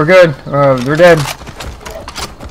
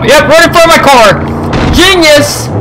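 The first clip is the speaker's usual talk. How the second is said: sarcastic exclamation; 11 semitones higher than usual. Real, not acted. NPC runs in front of car.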